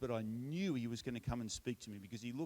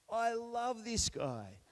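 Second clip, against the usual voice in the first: put-on high, slow, drawn-out drunk cheer; drunk declaration; 9 semitones higher, much slower than usual. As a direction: play the tipsy guy on the table, stretching it out. Drunk man shouts from table.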